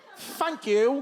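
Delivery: put-on British accent. Imitating how British people say thanks: imitating a British accent. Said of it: "They change the T H to an F, and then you're British".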